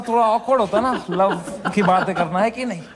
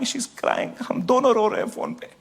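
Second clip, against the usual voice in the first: tearful; 3 dB quieter than usual. Real, not acted. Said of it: "I'm crying".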